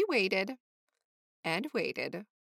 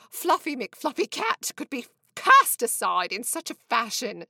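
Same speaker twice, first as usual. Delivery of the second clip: higher, louder, whiny cat lament; self-pitying cat Fluffy; 3 semitones higher, 6 dB louder than usual. A narrator's reading. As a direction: wail the cat's dramatic self-pity.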